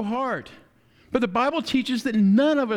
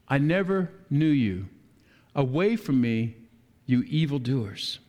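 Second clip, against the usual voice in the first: stern Jesus; 8 semitones lower than usual. Retold or imitated. Jesus rejecting the evildoers.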